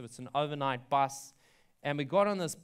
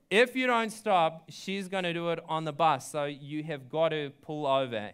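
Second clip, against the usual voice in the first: insistent. Retold or imitated. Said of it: "I was like".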